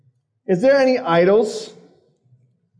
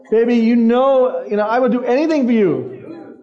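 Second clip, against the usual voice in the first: mock lovey-dovey phone voice, pitched up at first; sweet talk; 4 semitones higher than usual. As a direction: mimic smitten teens who won't hang up. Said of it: "you know that sweet talk".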